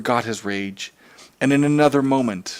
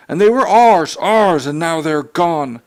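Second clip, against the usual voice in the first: wistful; 6 semitones higher, 6 dB louder than usual. Acted. Mother mourning lost children.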